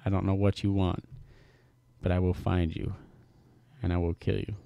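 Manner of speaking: lightly voiced Liam Neeson threat; Liam Neeson impression. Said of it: "just do that one line".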